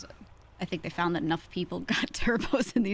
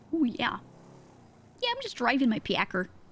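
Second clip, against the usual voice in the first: fake Canadian accent, higher pitch; 5 semitones higher than usual. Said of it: "Doing that too good".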